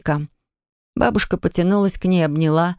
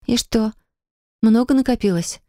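a bit timid; 5 semitones higher than usual. Acted. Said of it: "спросила Полина чуть боязливо".

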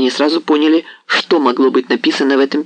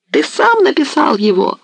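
furious accusation; 10 semitones higher than usual. A narrator's reading. Hetman accusing the messenger.

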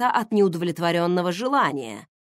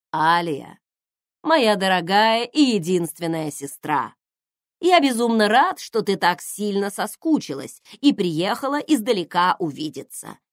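sarcastic welcome; 4 dB louder than usual. Acted. Exasperated mock-sweet welcome.

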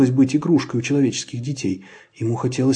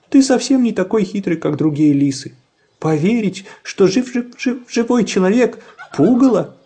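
laughing chick; 8 semitones higher, 3 dB louder than usual. A narrator's reading. Chick mocks fox, laughing.

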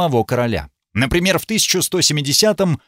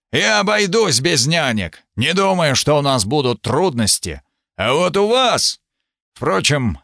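roaring tyrant king. Acted. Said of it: "Глаза засверкали гневом".

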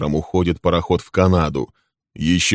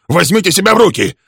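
much higher, loud, stress on себя; shouted command; 13 semitones higher, 8 dB louder, faster than usual. A narrator's reading. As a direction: yell at him to get a grip. Friedman restraining Leslie.

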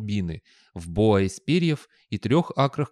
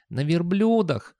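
high, drawn-out youth voice; skinny youngster; 7 semitones higher, slower than usual. A narrator's reading. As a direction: correct the boss in a high young voice. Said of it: "сказал тощий юнец".

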